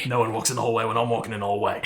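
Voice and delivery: put-on quick British accent turning Australian; badly faked British chef, rattled off; attempted British accent. Playing the chef owning his hallway, British accent gone Australian. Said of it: "it turns Australian every time".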